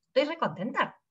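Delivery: "Estoy re contenta" as a rising, doubting question; doubtful tone. Shown as a demonstration. Teacher demonstrating tone that contradicts words. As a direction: ask "Estoy re contenta" without believing it. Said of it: "mi voz, mi tono te está diciendo de que no estoy contenta".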